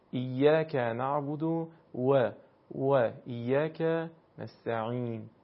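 «و» in «ایاک نعبد و» said as rounded Arabic w, slow recitation; Quranic recitation with Arabic w. Shown as a demonstration. Teacher reciting the verse to model the Arabic «و», slow recitation. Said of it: "واو عربی به همین صورته".

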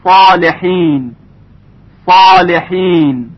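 heavy, full ص in صالحین, drawn out slowly; heavy tafkhim. Shown as a demonstration. Tajwid teacher showing the heavy letter ص, thick tafkhim. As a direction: say صالحین slowly with a thick, emphatic ص and dark following ā.

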